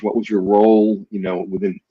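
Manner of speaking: ordinary delivery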